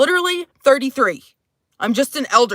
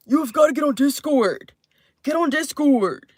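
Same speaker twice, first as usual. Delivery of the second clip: mock gamer men; 4 semitones higher than usual. Men on Xbox urging her to join Discord, lightly mocking. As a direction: imitate them nagging, dragging the last words.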